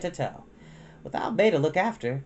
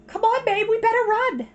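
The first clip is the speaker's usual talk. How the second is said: high, louder urging call; girl urging her sister to run from the rain; urgent big sister; 6 dB louder than usual. Acted. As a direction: hurry her little sister along.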